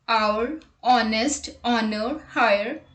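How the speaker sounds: careful demo of silent-H words. Shown as a demonstration. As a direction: drop the H in "honest" and "honor" and open straight on the vowel. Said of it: "unvoiced H".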